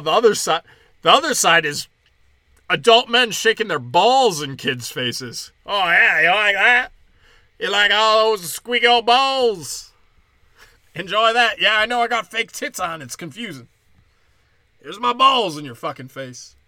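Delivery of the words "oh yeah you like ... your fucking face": high taunting sing-song; leering mock drag voice. Mock drag performer quote.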